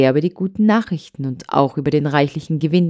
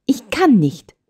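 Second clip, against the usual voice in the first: sobbing; 8 semitones higher than usual. Acted. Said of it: "unter heftigem Schluchzen".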